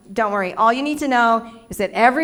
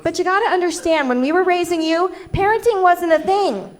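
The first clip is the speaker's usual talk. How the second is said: lightly voiced mom, pitched higher; higher-pitched parental self-justifying; imitating mom; 5 semitones higher than usual. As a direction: explain it as your own mother, in a higher voice. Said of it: "And she goes".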